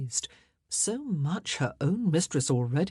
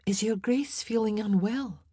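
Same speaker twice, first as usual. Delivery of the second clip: higher-pitched Scots lady; Scots accent; 5 semitones higher than usual. Acted. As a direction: ask gently in a Scots accent. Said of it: "in her pretty Scots accent".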